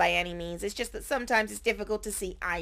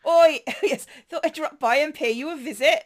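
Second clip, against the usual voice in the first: attempted Somerset accent; 4 semitones higher, 5 dB louder than usual. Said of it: "No, I can't do it".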